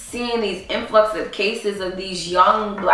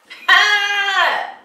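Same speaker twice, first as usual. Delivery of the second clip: high, long celebratory cry; whoop of triumph; 11 semitones higher than usual. Acted. Player celebrates in an acted football game, high triumphant whoop. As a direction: let out a drawn-out high whoop.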